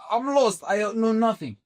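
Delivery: retold panic. Newcomer recalls being lost at arrival, mock panic. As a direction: act out being lost, pitch jumping up.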